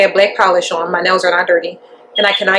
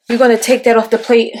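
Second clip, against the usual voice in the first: breathless from hurrying upstairs; out of breath; 2 semitones higher than usual. Real, not acted. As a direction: talk while catching your breath. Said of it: "I'm out of breath like shit".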